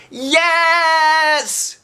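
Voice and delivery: very high, loud urgent shout; desperate yell. A narrator's reading. William yelling to the teacher, desperate. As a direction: blurt it out in a panic. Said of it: "Then William yelled".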